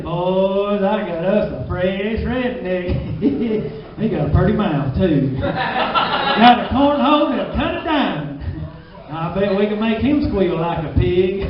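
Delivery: a hint of a leering hillbilly, slow in places; lightly voiced creepy backwoods man; mock hillbilly. Old fella bragging to his buddies, lightly voiced leer. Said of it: "picture that old fella going telling his buddies".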